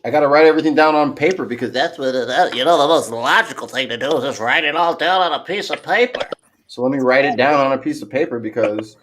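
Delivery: lightly voiced know-it-all nerd; a hint of a fussy, logical nerd. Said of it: "Oh, I like that voice".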